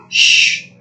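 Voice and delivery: a sharp whispered shush; hushing whisper. Acted. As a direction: hush him quickly. Fiona hushing panicking Donkey.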